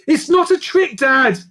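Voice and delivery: put-on high, loud insistent girl; yell. A narrator's reading. Daughter yells at her father, insisting. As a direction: yell it at him. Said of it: "yelled Lucy".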